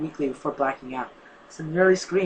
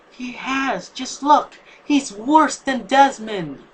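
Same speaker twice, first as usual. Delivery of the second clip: pleading shout; 8 semitones higher, 5 dB louder, much slower than usual. A narrator's reading. Pleading in the argument.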